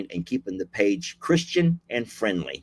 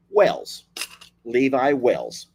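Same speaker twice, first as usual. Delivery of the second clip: careful name; slower than usual. Shown as a demonstration. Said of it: "So Levi Wells, okay?".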